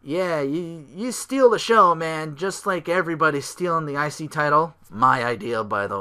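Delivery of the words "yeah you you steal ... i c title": mock Ambrose. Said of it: "Ambrose is like".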